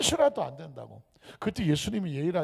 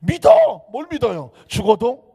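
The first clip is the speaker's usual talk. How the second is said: loud, high one-word command; 호통치는 명령; 4 semitones higher, 10 dB louder than usual. Acted. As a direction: burst out with a scolding order. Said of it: "등짝을 쳐야 되겠더라고요". (크고 높게 다그치며)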